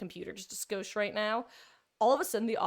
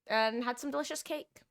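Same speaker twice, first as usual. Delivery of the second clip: unsure pause before cake; awkward hesitant wish; 4 semitones higher than usual. Real, not acted. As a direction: trail into cake as if second-guessing. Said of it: "I was so hesitant when I said cake".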